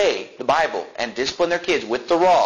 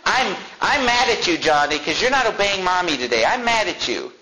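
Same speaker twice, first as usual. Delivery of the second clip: higher-pitched mock scolding at ordinary volume; imitated mad parent; 5 semitones higher than usual. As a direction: lightly mimic a mother telling off a small child. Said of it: "I've seen even parents this".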